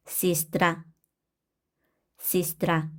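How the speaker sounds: 시스트라 with first e said as i; unstressed e as i. Shown as a demonstration. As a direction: say 시스트라, stress on the final a. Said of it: "야는 이로 발음을 한다".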